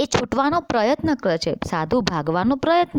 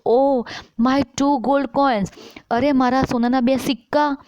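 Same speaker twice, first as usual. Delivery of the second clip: higher, dismayed villager crying out; 4 semitones higher than usual. Acted. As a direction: lament the lost gold coins, pitched up. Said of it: "ગામનો બીજો માણસ કહે છે". (સિક્કા ગુમાવનાર ગ્રામજનનો ઊંચો, દુઃખી અવાજ)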